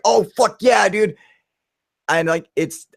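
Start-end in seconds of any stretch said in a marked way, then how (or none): 0.0-1.2 high, excited mock cheer; retold thrilled cheer. Filming the UFO on his phone, high thrilled cheer. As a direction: replay the thrill of watching it on the screen.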